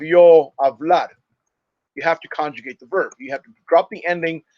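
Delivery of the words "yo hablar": "yo hablar" said slowly and louder as the wrong example; teacher showing an error; wrong form shown. Shown as a demonstration. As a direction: mark "yo hablar" as a mistake, slow and firm. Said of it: "you would never have".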